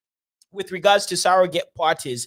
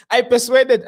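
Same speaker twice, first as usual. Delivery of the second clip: put-on a touch of Nigerian preacher accent; mock Nigerian accent; 5 semitones higher, 4 dB louder than usual. Host mocking the prophet's accent. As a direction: start the line like the prophet. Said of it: "making fun of the Jagaban's accent".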